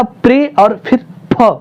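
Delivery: high, separated beats on प्रे and फ; stressed syllables. Shown as a demonstration. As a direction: slowly lean on प्रे, then on फ. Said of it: "प्रभाव पड़ता था".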